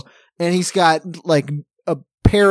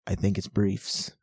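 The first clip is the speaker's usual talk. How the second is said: deadpan Dan; 9 semitones lower, 11 dB quieter than usual. Retold or imitated. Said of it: "Dan just goes".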